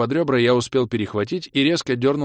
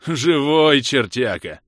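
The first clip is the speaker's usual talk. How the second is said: loud, raised whoop; joyful yell; 5 semitones higher, 6 dB louder, much slower than usual. A narrator's reading. Коготь hugging his lost friend, joyful yell. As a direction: yell it in delighted relief. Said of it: "и завопил".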